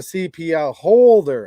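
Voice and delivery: retold quote with "holder" punched and drawn out; stress on HOLDER. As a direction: lean heavily on "holder". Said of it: "he emphasizes the word".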